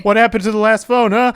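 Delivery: high, loud demanding Santa; angry Santa. Acted. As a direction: confront the kid about the phone.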